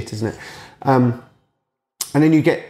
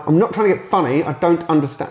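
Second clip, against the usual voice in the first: put-on young pupil protesting, pitched higher; pleading kid; 6 semitones higher than usual. Pupil protests to the teacher, higher and pleading. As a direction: plead like a misunderstood child. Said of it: "I'm like".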